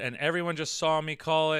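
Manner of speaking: plain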